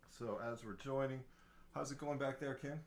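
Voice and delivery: talking through a Halloween mask; muffled under a mask. Real, not acted. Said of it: "Hey, what's with your voice?".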